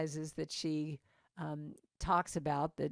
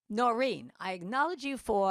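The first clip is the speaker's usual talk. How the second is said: Noreen; 3 semitones higher, 4 dB louder than usual. Retold or imitated.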